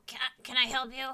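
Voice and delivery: lightly voiced kobold clerk. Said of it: "I can't really do a different sounding kobold voice".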